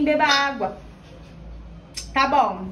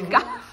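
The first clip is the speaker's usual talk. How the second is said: squeaky high laugh. Real, not acted.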